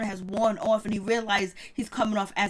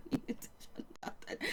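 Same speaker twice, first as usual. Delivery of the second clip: under her breath; 17 dB quieter than usual. Real, not acted. Scolding mama while laughing.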